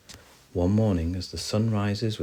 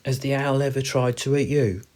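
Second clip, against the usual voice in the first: higher, louder hamster voice; inquisitive hamster; 7 semitones higher, 6 dB louder than usual. Acted. Hamster asking squirrel about the owl, high and curious. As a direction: ask eagerly in a raised animal voice.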